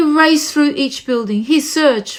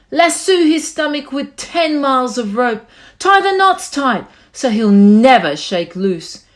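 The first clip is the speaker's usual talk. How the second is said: mock gang shout. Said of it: "they shouted".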